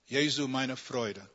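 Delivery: amateur German accent, spoken slowly; slow German in an English speaker's accent. Real, not acted. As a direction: attempt a German accent, unhurried. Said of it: "bad German accent".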